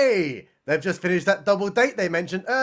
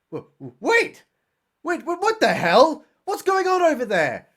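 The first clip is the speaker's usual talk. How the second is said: stammering mock panic; 9 semitones higher than usual.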